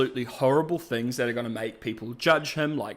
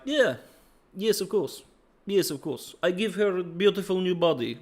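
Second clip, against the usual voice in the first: higher, lightly put-on accented voice; Victor; 6 semitones higher than usual. Victor promising Singed a new body, lightly voiced eagerness. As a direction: play an eager, higher-pitched agreement. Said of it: "And Victor's like".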